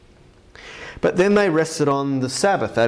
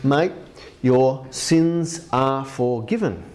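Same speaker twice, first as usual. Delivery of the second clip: put-on Australian accent; slower than usual. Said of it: "this is the Australian version".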